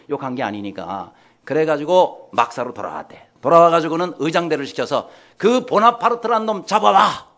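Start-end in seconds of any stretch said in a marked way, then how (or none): 5.4-7.3 higher, louder mock imperial command; shouted order. Emperor sending guards after the soldier, acted shouted command.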